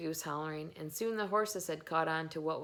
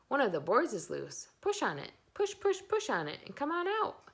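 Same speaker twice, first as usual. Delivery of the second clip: goose voice climbing higher on each push; chattering goose; 7 semitones higher, 3 dB louder than usual. A narrator's reading. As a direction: goose nagging the pig to push the board, higher and more excited. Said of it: "who talked rather fast".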